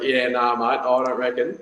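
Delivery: a hint of an Aussie king brushing it off; mock Aussie accent. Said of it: "He was an Aussie".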